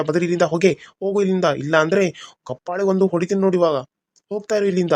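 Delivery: angry scolding. Acted. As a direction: berate her, blame her for everything. Husband scolds wife in anger. (ಕೋಪದಿಂದ ಬೈಯುವ ಧ್ವನಿ)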